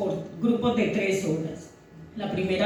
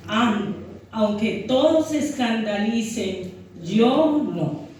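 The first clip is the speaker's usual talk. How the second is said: scripture reading. Acted. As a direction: read the passage solemnly to the church. Reads scripture aloud to congregation. (lectura bíblica pausada y solemne)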